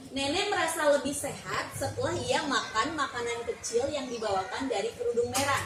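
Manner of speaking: put-on reading a fairy tale aloud to a child, steady and clear; story narration. A narrator's reading. Teacher reading Red Riding Hood to a child, storytelling voice. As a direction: tell it like a storybook for a little one.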